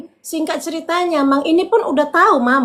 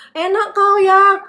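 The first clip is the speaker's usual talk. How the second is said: mock angry caller; 7 semitones higher, slower than usual.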